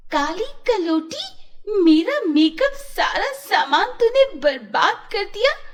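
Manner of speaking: loud, high, screaming at her cousin; shouting. Acted. Spoilt daughter screaming at cousin over makeup, shouting. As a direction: shriek the accusation. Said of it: "जोर-जोर से चिल्लाने लगती है".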